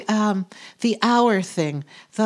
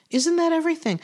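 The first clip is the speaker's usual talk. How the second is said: lifts the repeated question noticeably higher; emphatic higher repeat; 7 semitones higher, faster than usual. Shown as a demonstration. To the listeners, repeating her question more emphatically. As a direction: presses her point with the repeat. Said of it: "And isn't that everything?".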